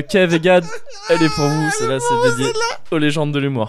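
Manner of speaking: dedicate it while still half laughing; teary tail end of a laughing fit; recovering from laughter. Real, not acted. Dedication right after corpsing. (encore secoué de rire)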